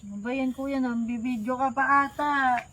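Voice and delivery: put-on drunk, dragging words; sloppy drunk mumble. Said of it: "Lasing na lasing ka pa".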